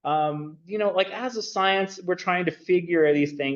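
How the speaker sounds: lightly hammed-up quote of a dismissive scientist; mock Marvin Harris. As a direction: toss off his view like a casual dude brushing ideas aside. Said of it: "like, he says".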